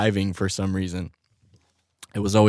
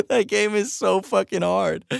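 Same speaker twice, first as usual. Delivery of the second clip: higher, slower; 11 semitones higher than usual. Shown as a demonstration. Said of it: "repeats it higher and slower".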